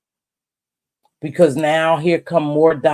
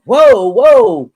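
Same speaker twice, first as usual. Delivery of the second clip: startled whoa; 9 dB louder than usual. Retold or imitated. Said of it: "and I was like".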